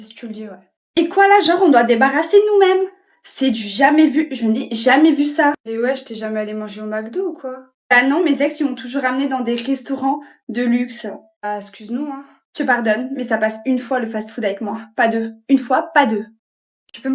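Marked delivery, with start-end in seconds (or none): 1.0-5.5 loud, high scandalised gasp; diva outrage. Acted. Girlfriend shocked she must clear her own tray, scandalised. 15.5-16.2 pas hit firmly with a falling tune; stern warning. Acted. Girlfriend warning boyfriend, emphatic.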